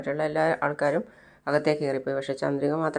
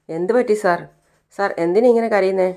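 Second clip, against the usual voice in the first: higher, louder concerned asking; worried driver; 5 semitones higher, 5 dB louder than usual. Retold or imitated. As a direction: call out to the weeping passenger with alarm. Driver asks crying passenger.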